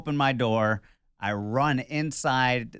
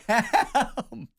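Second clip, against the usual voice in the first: mock madman screaming; 13 semitones higher, slower than usual. Husband reenacting running in, screaming for help. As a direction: scream like a madman at nobody, hammed up. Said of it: "being a madman ... screaming at nobody".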